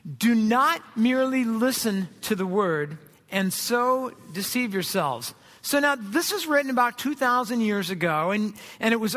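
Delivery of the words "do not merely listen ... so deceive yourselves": slow, measured reading aloud with the congregation; slow congregational reading. Shown as a demonstration. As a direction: read it out together, slowly. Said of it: "would you read this with me".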